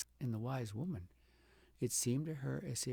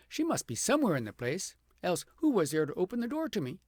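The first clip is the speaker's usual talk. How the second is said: raised, indignant voice, louder and higher; angry outburst; 6 semitones higher, 6 dB louder than usual. Acted. Frightened princess fuming alone in the dark cottage, angry and loud. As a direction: demand it furiously of the empty room. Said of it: "in her terror the princess grew angry".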